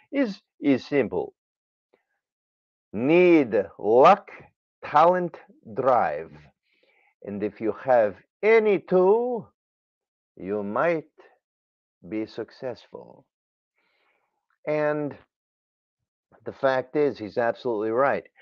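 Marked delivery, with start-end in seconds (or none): 0.1-13.2 put-on Russian accent. Retelling Nureyev's advice to a young dancer: Nureyev's Russian accent. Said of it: "There's my Russian accent".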